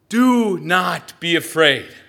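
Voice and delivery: loud and slow, reassuring over the wind; loud, slow call. Acted. Jesus calls slowly and loudly to frightened disciples. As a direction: call it out slowly across the waves. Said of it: "It was probably loud".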